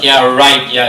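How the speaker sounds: lightly imitated sarcastic jab; mock sarcastic. Jealous wives winking and mocking Safiya, mildly sarcastic. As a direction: mimic the other wives' scoffing. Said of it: "but they sarcastic, mock and whatnot".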